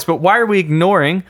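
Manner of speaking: silly voice. Pretend. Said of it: "I don't know why I'm doing this voice".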